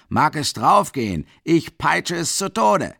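loud, high, slow furious yell; raging. A narrator's reading. Mikolka raging at the dying horse, furious. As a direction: rage it out.

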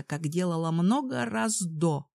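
ordinary delivery, nothing marked

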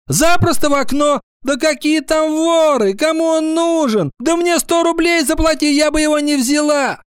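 very high, animated schoolgirl; chiming in. A narrator's reading. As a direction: pile on with scornful certainty. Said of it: "подхватила Кадушкина". (звонко подхватить)

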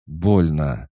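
high, loud cry of pain; pained child cry. Acted. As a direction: cry out as it hurts.

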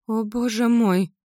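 high, slow horrified gasp; exhaled in horror. Acted. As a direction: breathe it out, aghast. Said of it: "выдохнула Мара". (в ужасе выдыхает)

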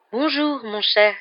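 lightly voiced mystic teacher, high pitch; Professor Trelawney. A narrator's reading. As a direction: greet a pupil with airy affectation. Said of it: "dit-elle à voix basse".

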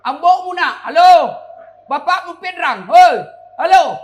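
high, full-blast phone yelling; shouting. Retold or imitated. Villager shouting to his child down the payphone, shouting. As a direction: bellow into the phone as if distance matters.

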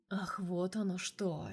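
slow drawn-out aha. Acted. Boss drawing it out, teasing his assistant. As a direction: stretch the words out knowingly. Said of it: "протянул Разумовский".

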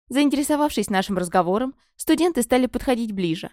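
ordinary delivery, nothing marked

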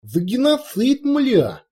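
a rowdy orc warrior, lightly voiced, pleading his petition; loud orc warrior. Orc warrior explains the petition to his chief, rowdy and loud.

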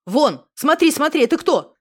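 loud alarmed pointing out. A narrator's reading. Misha points ahead for Alyona, loud and alarmed. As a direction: shout it out, startled by something ahead. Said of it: "Миша встревоженно указал вперёд".

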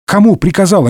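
high-pitched baffled question; puzzled. A narrator's reading. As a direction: ask it in sudden confusion. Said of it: "не понял Д'Артаньян". (недоумённо)

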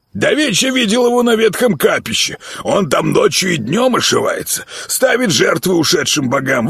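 high-pitched miller ranting about the madman; fussy old miller. Acted. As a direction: gossip like a scared village miller. Miller's voice, long speech.

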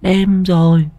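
put-on high-pitched small child calling mother; high, slow, puzzled child's questioning; little boy voice. A narrator's reading. Son calls his mother late at night, high little-boy voice. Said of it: "Thằng bé mới cất tiếng hỏi".

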